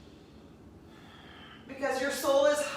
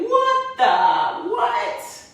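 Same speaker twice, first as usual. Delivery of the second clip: a loud, playful "what the, what?" as if the hips protest; mock startled hips; 7 dB louder, much slower than usual. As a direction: give voice to baffled hips, half-joking. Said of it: "your hips are gonna say".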